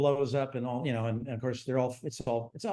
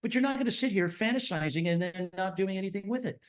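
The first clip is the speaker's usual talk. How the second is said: wifely ultimatum; 6 semitones higher, faster than usual. Retold or imitated. Wife lecturing husband, retold.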